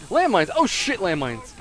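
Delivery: loud, high startled cry; alarmed shout. Real, not acted. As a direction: shout it on noticing. Spots landmines, alarmed.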